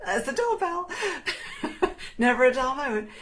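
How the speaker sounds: laughing at the doorbell mid-sentence. Real, not acted. Host laughing as the doorbell rings during the live reading. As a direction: break into real laughter.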